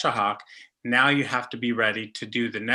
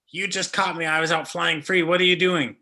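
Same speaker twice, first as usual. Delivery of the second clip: lightly voiced protesting bird, pitched up; mock indignant bird; 4 semitones higher than usual. Caught bird complains to its trapper, mildly indignant. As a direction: play a put-out captive bird.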